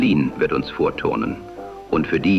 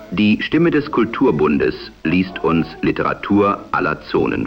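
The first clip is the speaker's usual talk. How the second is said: am radio. Acted. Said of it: "die dem damaligen Sprechstil nahekommt".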